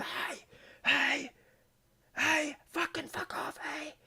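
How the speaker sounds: very high yelled "Hey!" and "fuck off"; screaming at a lion. Shown as a demonstration. Guide shows how you scream at a lion, high yell. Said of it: "you start screaming".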